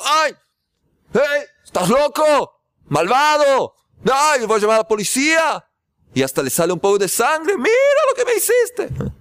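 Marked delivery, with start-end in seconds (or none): 0.0-5.6 angry protest. Retold or imitated. Man hit by a stone protests angrily at his rescuer. 7.6-9.1 very high, whiny accusing voice; aggrieved complaint. Retold or imitated. Injured man accuses his rescuer in a high whine.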